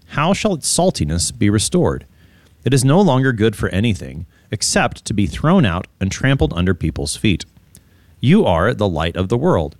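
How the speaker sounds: measured, solemn Bible reading; scripture reading. Acted. Pastor reading Matthew five to listeners, measured scripture reading. Reads scripture aloud on podcast.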